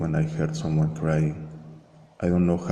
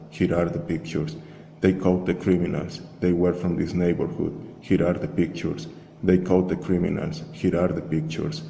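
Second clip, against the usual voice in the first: lightly voiced megaphone announcement, repeated like a loop; a hint of a distant patrol-car loudspeaker, even and mechanical. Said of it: "it was speaking about crime, about murders of ordinary people".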